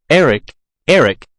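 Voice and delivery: a lightly voiced young woman calling out; a light hint of a girl calling to him; Christine's voice. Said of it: "said Christine's voice".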